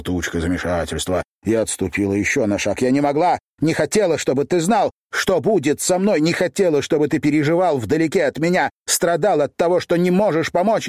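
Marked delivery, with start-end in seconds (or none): 2.8-10.9 tearful pleading. A narrator's reading. Girl crying to Runa she didn't want him suffering, high and pleading. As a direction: plead through tears. Sobbing explanation before breakdown.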